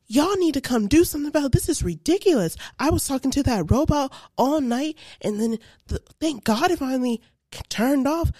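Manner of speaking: imitating mom chewing out customer service; mom's angry phone complaint. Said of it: "on the phone with Brinks like".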